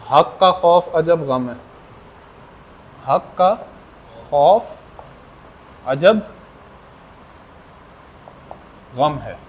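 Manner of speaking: each word set apart, slowly; slow spaced-out recital of a mnemonic; slow recitation. Shown as a demonstration. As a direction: dictate it word by word with long pauses. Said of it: "वो एक जुमला सा है".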